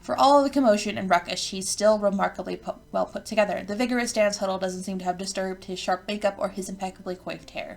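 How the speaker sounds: measured game narration read aloud; story narration. A narrator's reading. Narrator introduces the troll approaching Lanera, measured storytelling. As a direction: read it out as a storyteller describing a scene.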